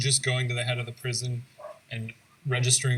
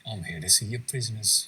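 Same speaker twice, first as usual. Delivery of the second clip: slightly lowered attempt at English accent; second try at a British accent; Charles Dickens impression, British accent; 2 semitones lower than usual. Friend introducing Dickens to the prison, attempted British accent. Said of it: "That sounded a little bit nice".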